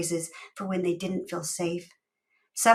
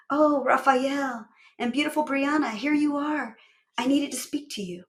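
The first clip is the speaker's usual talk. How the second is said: put-on old woman voice; 6 semitones higher than usual. Old neighbor greeting them.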